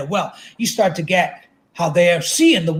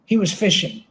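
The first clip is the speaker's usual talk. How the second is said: ordinary delivery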